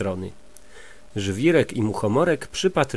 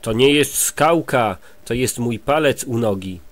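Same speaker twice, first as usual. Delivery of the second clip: booming giant. Acted. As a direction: let it rumble down from above. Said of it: "zadudnił głos".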